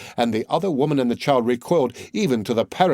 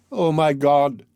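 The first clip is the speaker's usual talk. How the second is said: sudden exclamation; 3 semitones higher, slower than usual. A narrator's reading. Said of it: "she suddenly exclaimed".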